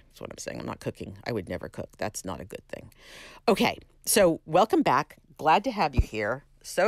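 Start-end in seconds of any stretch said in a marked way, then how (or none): 0.1-2.9 muttered aside. Real, not acted.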